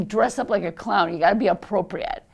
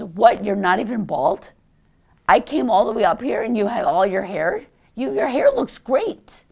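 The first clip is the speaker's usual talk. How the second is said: brash friend; 2 semitones higher, 6 dB louder than usual. Retold or imitated. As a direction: tease her like a cheeky comedian friend. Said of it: "she goes".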